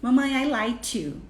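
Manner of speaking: "like you" said as "light you"; child's mispronunciation. Retold or imitated. Child telling mom affection, "like" wrongly said as "light". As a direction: swap the k of "like" for a t. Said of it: "Fala light, errado".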